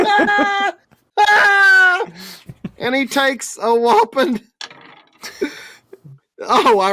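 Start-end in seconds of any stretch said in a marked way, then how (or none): 0.1-2.1 high, loud repeated screams; screaming cry. Acted. Crotchbox still screaming from the barbed wire. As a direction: keep screaming in pained rapture.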